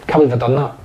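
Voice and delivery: quiet, resigned oh for fuck's sake; muttered curse. Retold or imitated. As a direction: mutter it like you spilt juice. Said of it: "the way I've just spilt that juice".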